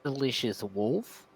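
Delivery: drawn out, low offer; slow it right down; slow and deliberate. Acted. Offering wolf meat slowly.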